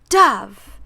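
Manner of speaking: urgent shouted call; shouting a name. Acted. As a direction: yell for her partner. Calling out to partner.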